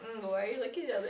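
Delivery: playful, quick flirty question. Shown as a demonstration. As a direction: ask it with teasing, flirty interest. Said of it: "I was being flirty".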